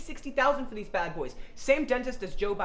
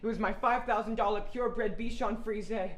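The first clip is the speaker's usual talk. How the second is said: laughing mock wail; hammy grief; 2 semitones lower than usual. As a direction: overplay the tragedy. Hammy grief over dog.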